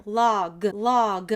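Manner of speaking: "log" with the final g set apart; adding final letter. Shown as a demonstration. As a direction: hold the "la" in "log", then pop the g. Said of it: "add in that final letter".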